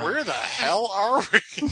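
slow robotic computer reading; text-to-speech voice. Retold or imitated. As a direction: read it like a clumsy speech synthesizer. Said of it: "It read everything phonetically".

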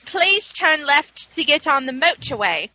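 mock British sat-nav instruction; British GPS voice. GPS switched to British dude, British accent. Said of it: "changed my G P S to this British dude".

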